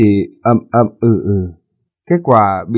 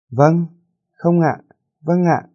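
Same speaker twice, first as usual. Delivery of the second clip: higher, mock terse yes and no; imitating her curt phone replies; 6 semitones higher, slower than usual. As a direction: parrot her clipped answers. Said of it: "Nghe rất lạ".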